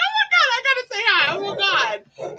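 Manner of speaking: high, rushed start slowing at the end; acted frantic eagerness. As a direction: gush in mock urgency. Acts out eagerness to greet.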